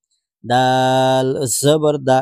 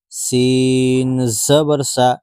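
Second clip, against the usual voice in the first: slow, drawn-out letter-by-letter spelling; teacher spelling Arabic letters slowly; slow spelling drill; slower than usual. Shown as a demonstration. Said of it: "বারবার বানান করে পড়".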